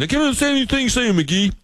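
high-pitched mock complaint; whiny high imitation of baffled colleagues; baffled New Englanders. New Englanders complaining to their Southern coworker, baffled.

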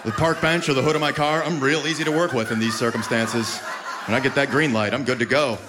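low, easygoing mock-male shrug; unbothered guy. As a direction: play a man casually fine with it. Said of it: "We're like".

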